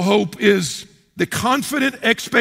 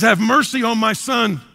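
slow, louder plea for mercy; pleading cry; 5 semitones higher, 5 dB louder than usual. Retold or imitated. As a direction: beg slowly, lifting the voice. Father begging Jesus for son.

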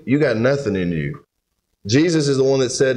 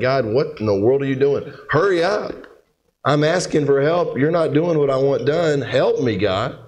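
mock exasperated prayer, pitch jumping up on the urging; impatient pleading; 2 semitones higher than usual. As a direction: act out David badgering God to hurry. Acting out impatient David praying to God.

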